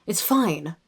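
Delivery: corrected take in RP English; RP accent. Shown as a demonstration. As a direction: say it in an RP British accent. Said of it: "Rachel does the R P accent".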